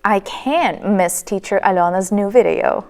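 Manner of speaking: "can't" long and breathed out, t unreleased; emphasized "can't". Shown as a demonstration. Teacher gives a negative example, stressed "can't". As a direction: lean on "can't" before "miss". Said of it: "we emphasize it and not pronounce".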